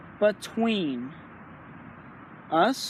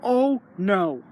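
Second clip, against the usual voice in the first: mock panic; 2 semitones higher, 4 dB louder, faster than usual. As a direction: play a frantic caveman fleeing a dinosaur, half joking. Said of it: "it's constantly going".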